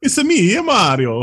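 high squeaky Mario voice, jumping way up on the first words; a cartoon plumber's cheery hello; Mario impression. Mocking the casting, he squeaks it as Mario. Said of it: "Brooklyn accent".

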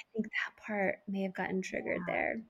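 put-on whispering the admission to her child; soft, breathy whisper. Softly owning it to child.

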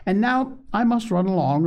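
high-pitched, gushing good woman; tickled. A narrator's reading. Missus Beebe admiring the children's cake, tickled. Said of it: "tickled to death to see their delight".

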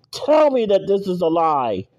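ordinary talk, nothing marked

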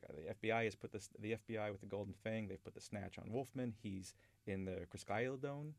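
slurring. Retold or imitated. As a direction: slur it like a stoner. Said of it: "I almost said that without slurring".

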